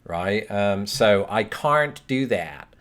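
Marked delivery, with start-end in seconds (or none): 1.4-2.0 "can't" with an R put in, like "carn't"; added R in can't. Retold or imitated. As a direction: say "can't" as "carn't", drawn-out vowel with an R. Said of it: "put an R in can't".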